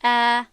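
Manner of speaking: ا held long and loud for two beats; drawn-out alif. Shown as a demonstration. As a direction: stretch the vowel ا over two counts. (کشیدن ا به اندازهٔ دو حرکت)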